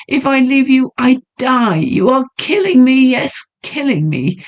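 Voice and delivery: high, pleading lady's voice; desperate heroine; tormented young woman. Acted. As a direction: beg him to understand her suffering. Heroine confesses her torment.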